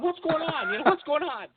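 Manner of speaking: high, confused what's going on; bewildered. Retold or imitated. Guest baffled by host's outburst off air, high puzzled voice. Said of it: "I'm going".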